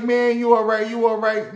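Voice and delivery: a hint of a concerned old man; old man asking. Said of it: "He's like".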